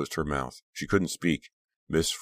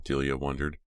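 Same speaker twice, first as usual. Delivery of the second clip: usual speaking voice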